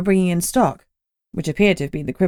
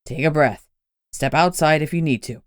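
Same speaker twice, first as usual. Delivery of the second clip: low, calm and gentle; steady her down quietly; soothing boss to a scared partner; softly; 3 semitones lower than usual. Acted. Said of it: "Gunnar said softly".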